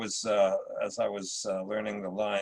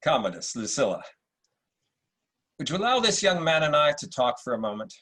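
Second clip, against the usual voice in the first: supercilious Marcus Aurelius; 3 semitones higher, faster than usual. Acted. Emperor greets Septimius at court, lightly supercilious. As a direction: play it like a British actor's Roman emperor. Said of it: "a slightly supercilious Marcus Aurelius".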